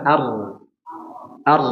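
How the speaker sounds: ar with a little air still flowing; correct flowing r. Shown as a demonstration. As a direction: let the r sound run on lightly. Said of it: "Harusnya gimana?".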